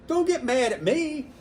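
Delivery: high, loud, slow plea; retold protest. Shop owner calls after fleeing customers, loud amused protest. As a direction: drag out a laughing protest.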